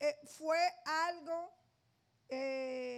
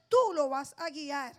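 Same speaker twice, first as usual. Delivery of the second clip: firm command; 3 semitones lower, 6 dB louder than usual. Retold or imitated. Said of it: "Dios le habla tan fuerte".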